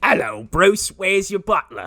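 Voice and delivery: high, loud mock villain voice; Penguin. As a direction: call out like a cartoonish comic-book crook. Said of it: "you sound like Penguin".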